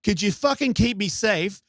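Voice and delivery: high-pitched exasperated complaint; kinda pissed. Retold or imitated. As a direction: re-enact an indignant challenge to God. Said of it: "I go to bed kinda pissed".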